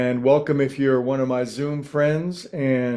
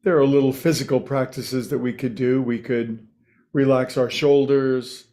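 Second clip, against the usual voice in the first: unhurried meditation teacher with long pauses between phrases; lightly held meditation-guide voice; guided meditation. Real, not acted. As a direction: ease listeners into stillness, phrase by phrase.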